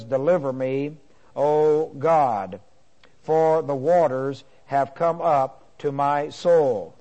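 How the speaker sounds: slow, measured psalm reading; a restrained plea, each phrase weighted; crying out to God. Retold or imitated. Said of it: "calls and cries out to God in the night".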